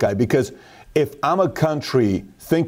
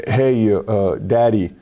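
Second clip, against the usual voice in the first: lightly voiced six-year-old, low and hesitant; nervous little son; 5 semitones lower than usual. Six-year-old son sits dad down for a talk, lightly imitated, hesitant. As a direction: imitate a small boy carefully raising something. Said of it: "this is how he talks to me".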